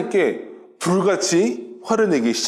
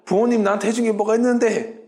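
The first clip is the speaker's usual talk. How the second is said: mildly acted defiant child, pitched higher; mock defiance; 4 semitones higher than usual. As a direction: throw it at your parents like a mock rebel. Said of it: "부모님에게 반항심이 들어서". (반항하는 자식 흉내)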